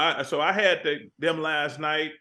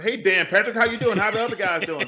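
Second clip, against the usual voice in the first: hurried, higher-pitched commercial greeting; retold attempt at going faster; sped-up retake; 4 semitones higher than usual. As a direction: rattle off the greeting brighter and quicker. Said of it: "you gotta go faster".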